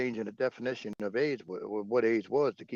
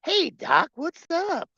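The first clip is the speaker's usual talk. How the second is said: high playful flirt; flirty greeting; 6 dB louder, much slower than usual. Retold or imitated. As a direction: greet the doctor with a wink. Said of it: "It's like".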